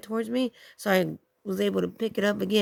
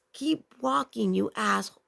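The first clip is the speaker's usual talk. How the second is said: mad; 2 semitones higher than usual. Retold or imitated. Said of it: "You know, I was mad".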